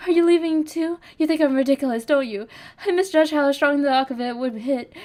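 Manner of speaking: a touch of tears, pitched a little up; tearful pleading. Acted. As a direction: plead through held-back tears, hurt and drunk. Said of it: "You're crying?".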